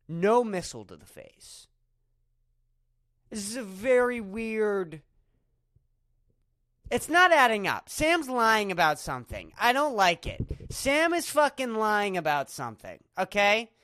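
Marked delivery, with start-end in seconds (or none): 3.3-13.7 loud, heated accusation; loud accusing rant. Real, not acted. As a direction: accuse Sam, raising the voice.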